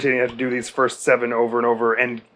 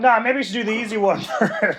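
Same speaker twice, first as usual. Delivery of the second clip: mocking game voice; 9 semitones higher than usual. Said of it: "They're like".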